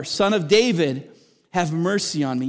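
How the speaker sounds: blind beggar's plea, lightly re-enacted; mild imitated cry. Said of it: "he cried out all the more".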